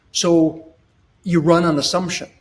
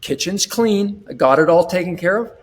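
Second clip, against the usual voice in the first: smiling confident husband. Retold or imitated. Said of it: "now you put the smile on".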